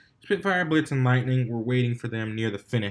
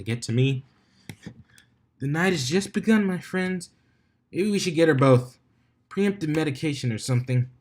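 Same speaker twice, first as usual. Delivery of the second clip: high, bright-toned crowd announcer voice; 5 semitones higher than usual. A narrator's reading. DJ addresses the stadium crowd, booming announcer voice.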